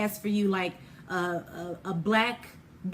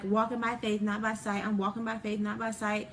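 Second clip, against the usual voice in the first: rote cliche; 5 dB quieter than usual. Retold or imitated. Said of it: "like, a cliche".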